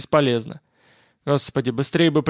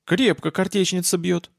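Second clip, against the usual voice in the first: ordinary delivery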